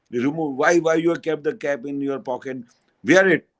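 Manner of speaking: imitating a disciple scolding his guru; a touch of rude insistence; rough demand. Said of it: "he talked very roughly".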